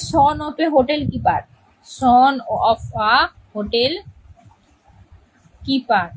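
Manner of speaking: very slow, with pauses between words; dictating notes to the class; slow dictation. Shown as a demonstration. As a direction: dictate it word by word. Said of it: "তাহলে এটা লেখো".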